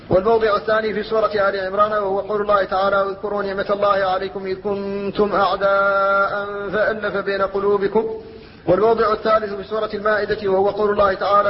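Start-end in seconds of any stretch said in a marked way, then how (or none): 3.0-8.2 lightly chanted verse with held vowels; Quran recitation. Acted. Teacher citing a verse of Al Imran, chanted recitation. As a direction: recite in even tajweed, stretching the long vowels.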